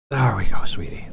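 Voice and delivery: whispered sweetie; whispering sweetie to the cat in her lap; whispered endearment. Real, not acted. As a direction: breathe it to the cat. Cuddling the cat.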